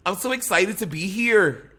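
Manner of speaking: badly faked Scottish accent, slow; poor Scottish accent. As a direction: attempt a Scottish accent that slips toward Minnesota. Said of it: "Can you do it in a Scottish accent?".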